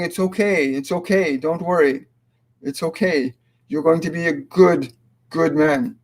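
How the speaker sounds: a mother reassuring her nervous son, gently; gentle mother's comfort. Retold or imitated. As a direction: comfort a scared son, lightly voiced. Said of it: "grabbing his cheeks and saying".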